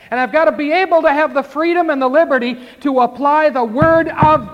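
rising preacher's cadence, driving each clause home; preaching at full force. Acted. Preacher urging the congregation to repent, fiery and loud.

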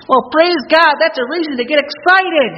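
high, loud rising praise; excited preaching. Acted. Preacher telling the church Jesus is here, excited shout. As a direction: lift the room with joy.

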